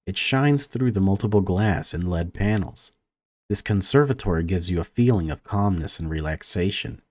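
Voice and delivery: even, measured read-aloud of game text; story narration. A narrator's reading. Gamer reads a conservatory scene to viewers, story narration. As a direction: narrate it evenly, pausing between sentences.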